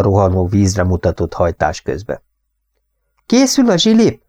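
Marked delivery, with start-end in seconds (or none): 3.3-4.2 called out. Acted. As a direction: call it out over the rushing water. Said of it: "kiáltotta a lány".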